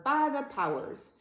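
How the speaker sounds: high squawked agreement; parrot squawk. A narrator's reading. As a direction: squawk it like a pirate's bird. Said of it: "squawked the bird".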